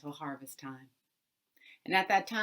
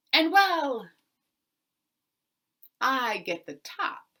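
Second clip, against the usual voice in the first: sly bargaining boss, much louder; spring the trick on him loudly; scheming landowner, louder; 9 dB louder than usual. Acted. Mister Jones names the price.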